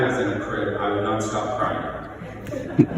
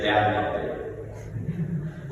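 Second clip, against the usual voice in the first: tearful reading; 2 semitones lower, 5 dB quieter, much slower than usual. Real, not acted. Eulogy, quoting late mother.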